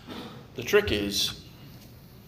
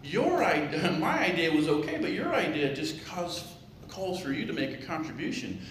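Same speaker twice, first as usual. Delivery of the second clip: pig voice; 6 semitones higher than usual. Acted. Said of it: "He goes".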